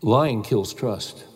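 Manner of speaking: slow, weighty preaching, each line spaced; solemn preacher's litany; slow sermon refrain. Acted. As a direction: hammer the refrain home one phrase at a time.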